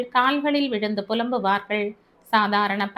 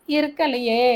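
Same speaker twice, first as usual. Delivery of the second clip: fading wail; 3 semitones higher than usual. Acted. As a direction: let the wail die away. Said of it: "என்று கதறிய".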